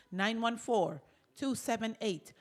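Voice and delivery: measured DJ-style number read; DJ delivery. Real, not acted. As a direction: read the phone number like a radio DJ, drawing out the end. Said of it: "you sound like a real".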